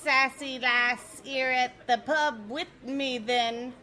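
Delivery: high, bouncy mock Cockney pub voice; hammed-up British accent. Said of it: "we've already got the bloody accents".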